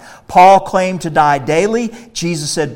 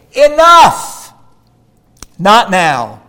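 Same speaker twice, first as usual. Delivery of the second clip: sharp, much higher and louder cry; commanding shout; 3 semitones higher, 6 dB louder, much slower than usual. Acted. Preacher telling believers to stop serving evil, commanding shout. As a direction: cut sin off with one ringing word.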